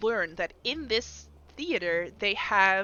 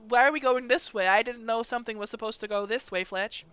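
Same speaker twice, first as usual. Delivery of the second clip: nervous NPC voice; 3 semitones higher, 4 dB louder than usual. Acted.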